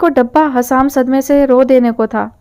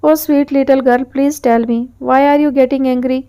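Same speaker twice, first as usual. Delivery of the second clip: charming coaxing; much slower than usual. Acted. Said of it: "اپنے ازلی دل چرا لینے والے انداز میں".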